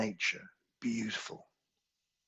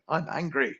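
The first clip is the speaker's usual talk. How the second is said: laughing; 6 semitones higher, 5 dB louder than usual. Acted. Voicing an angry inner voice, laughing.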